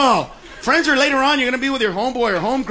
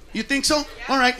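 much softer, leaning in; menacing quiet; 8 dB quieter than usual. Real, not acted. Comic challenging a heckler, going quiet. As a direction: drop it to a threat. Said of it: "Let me show you".

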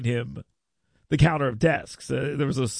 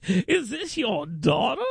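imitating Ziegler; 7 semitones higher, slower than usual. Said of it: "I was like".

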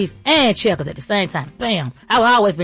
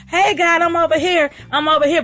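pitched up, eager mock call for attention; calling out to God; 5 semitones higher than usual. Speaker mock-calls to God to be noticed, pitched-up call. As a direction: wave God down with a playful shout-out.

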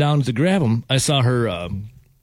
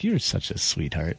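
imitating a smitten woman, soft and low; slow, quiet mock swooning; 9 semitones lower, 8 dB quieter, slower than usual. Shrek lady turned sweetheart to the storyteller, smitten. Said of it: "all of a sudden was smitten".

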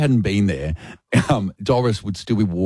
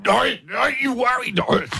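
high, raised don't you worry; raised reassurance; 11 semitones higher than usual. Retold or imitated. Reassuring deaf Doris while retching.

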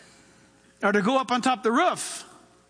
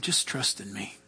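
soft, much lower, almost whispered; still small voice; 14 semitones lower, 8 dB quieter than usual. Acted. God softly calming a panicking believer, hushed. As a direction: speak gently as God calming the drowning. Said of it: "you hear him saying".

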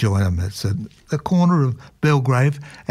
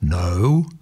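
lower, slow mock-booming voice from above; 5 semitones lower than usual. A narrator's reading. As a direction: boom it out slowly like a voice from nowhere. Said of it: "boomed the voice".

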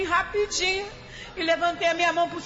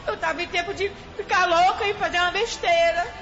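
crying. Real, not acted. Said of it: "ela tá aqui chorando".

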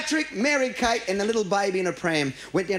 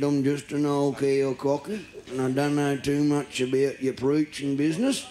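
put-on old farmer; 5 semitones lower than usual.

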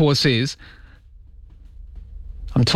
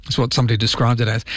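normal talking voice

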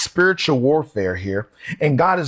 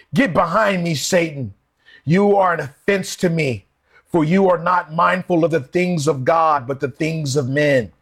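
stern rebuke; 3 semitones higher than usual. Retold or imitated. Jesus turning on Peter for losing sight of the mission, stern. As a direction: rebuke him firmly, without shouting. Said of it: "Jesus spoke to him harshly".

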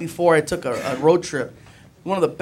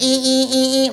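mock angry squeaks; 6 semitones higher than usual. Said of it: "they're getting all mad".

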